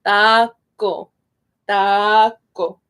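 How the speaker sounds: "taco" slowly, with a softened C. Shown as a demonstration. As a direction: ease off the C in "taco". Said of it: "a little bit softer in Spanish".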